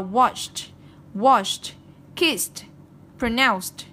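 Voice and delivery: "watched, washed, kissed, pronounced" each closed with a crisp t. Shown as a demonstration. Teacher reading examples to students, -ed said as t in "watched, washed, kissed, pronounced". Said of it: "Cái này chúng ta đọc là".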